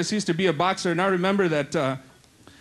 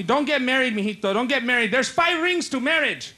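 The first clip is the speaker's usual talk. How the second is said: advising uncle; 3 semitones higher than usual. Acted. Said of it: "my uncle tells me".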